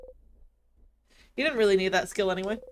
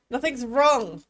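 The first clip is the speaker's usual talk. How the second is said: angry snap; 3 semitones higher, 5 dB louder, slower than usual. Acted. Angry denial to worried friend.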